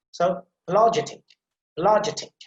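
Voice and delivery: "apologetic" as "pologetic", with emphasis on the j sound; corrected pronunciation. Shown as a demonstration. Teacher modelling before a student repeats, swallowed first vowel in "apologetic". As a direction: drop the first a of "apologetic" and stress the j syllable. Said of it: "you have to put some emphasis".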